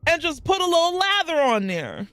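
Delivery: lecturing the crowd who skip their legs; exasperated rant. Real, not acted. Ranting at shower habits.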